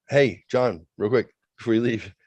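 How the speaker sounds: hammed-up eager pitch. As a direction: push the joke hard. Pushy joke delivery to boss.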